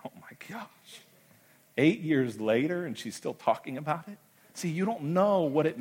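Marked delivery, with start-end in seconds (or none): 0.0-1.0 whispered, much higher "Oh, my gosh."; stunned whisper. Retold or imitated. Pastor reacting to the widow's text. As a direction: breathe it in disbelief.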